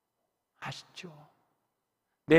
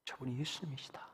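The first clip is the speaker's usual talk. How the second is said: soft unvoiced whisper; 3 semitones lower, 16 dB quieter than usual. Disciple whispering to Peter who Jesus is. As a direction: whisper it like a secret.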